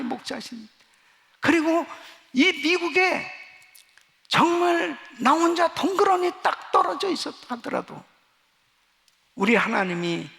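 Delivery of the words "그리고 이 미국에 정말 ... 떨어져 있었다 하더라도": high, loud impassioned preaching; preaching at full force. Acted. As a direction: rise to the climax of testimony. Preaching climax.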